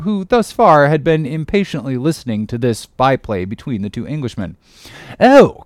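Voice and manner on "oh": very high, loud exclamation; captain's cry. A narrator's reading. Captain answering Ahab's question, loud cry. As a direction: burst out as if just remembering. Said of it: "cried the one-armed captain".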